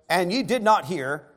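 sarcastic. Retold or imitated. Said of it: "throws a little bit of sarcasm".

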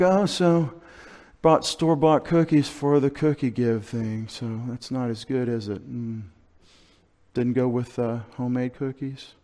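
catty comparison. Retold or imitated. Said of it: "this is why people are like".

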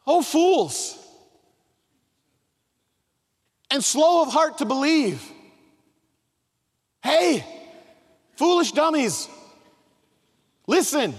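a hint of a scolding teacher, high and loud; mock rebuke of the slow disciples; Jesus scolding. Jesus scolding the two disciples, mock stern and loud. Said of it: "he looks at them and says".

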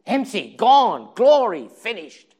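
each word loud and high, hammered out; stark, loud declaration; ringing proclamation. Real, not acted. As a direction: pound each word like a verdict. Preacher hammering doom words.

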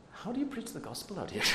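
puzzled question in a put-on Indian accent. Visiting Indian missionary questions his American hosts, Indian accent. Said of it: "I'll stop doing the Indian accent".

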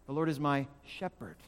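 SHEPHERD set apart after a pause; slight pause before shepherd, weighting it; stress on SHEPHERD. Shown as a demonstration. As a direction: hold back, then land on shepherd. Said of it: "emphasize one word at a time".

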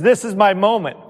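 hammed-up eager fighter; fired up. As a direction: Peter rallying himself before the fight. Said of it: "And Peter says".

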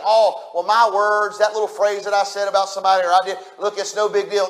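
mock offhand, brushing it aside; casual dismissive quote; dismissive shrug. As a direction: say it like it barely matters. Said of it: "when next time we just think".

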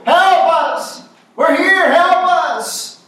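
high, loud cries for rescue; desperate distress call, acted from the pulpit; acted screaming. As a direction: shout like a shipwreck victim begging to be found. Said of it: "They screamed".

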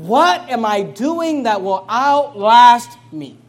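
loud, slow preaching cry; fervent self-questioning. Acted. Pastor voicing the listener's self-examination, loud and slow. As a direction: call out each question like a searching conscience. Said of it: "consider right now in your mind".

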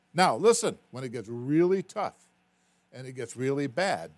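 preaching exhortation. Real, not acted.

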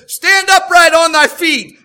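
loud, slow command to rise; slow booming command; commanding shout. Retold or imitated. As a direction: boom it out like an apostle healing. Paul commands the crippled man.

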